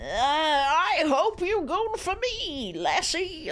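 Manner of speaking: lightly voiced old man, very slow. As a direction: drawl it like a creaky old man. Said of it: "the old man voice".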